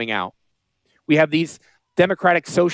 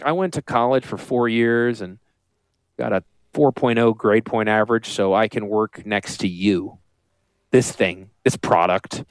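lower, dragged-out mock of a put-upon assistant; mocking Julia; 7 semitones lower than usual. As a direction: play her as fed up and deadpan, voice dropped low. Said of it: "Julia's like".

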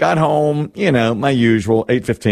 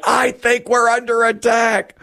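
high, slow mock alarm; wife bolting upright in bed, mock-alarmed high voice; 11 semitones higher, slower than usual. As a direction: ham up the wife's panicked warning. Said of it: "She's like".

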